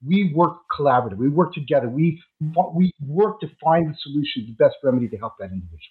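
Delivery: muffled, like talking underwater. Real, not acted. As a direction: voice dulled by a bad microphone. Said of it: "it sounds like you're talking underwater".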